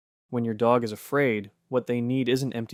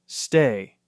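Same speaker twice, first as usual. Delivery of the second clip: firm command; 6 dB louder than usual. Retold or imitated. Quoting a command to the dog.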